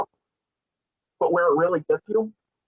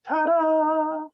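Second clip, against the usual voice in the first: triumphant ta-da; 13 semitones higher than usual. Real, not acted. Reveal after pulling tape off.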